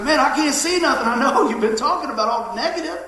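lightly voiced complainer; complaining person. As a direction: whine about everything going wrong. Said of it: "it's like".

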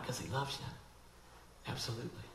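hushed, breathy whisper. Real, not acted. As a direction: drop to a whisper. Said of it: "whispered aside".

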